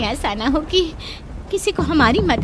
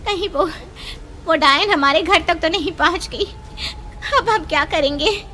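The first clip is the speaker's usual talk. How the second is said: higher, tearful fearful pleading; panicked fear; 3 semitones higher than usual. Acted. Mother, fearing the witch reached home, panics. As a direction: cry out in terror.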